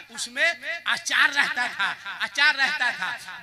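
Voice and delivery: slow, laughing through it. Real, not acted. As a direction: chuckle out the words slowly. Speaker laughs about the pickle basket. (हँसते हुए धीरे धीरे)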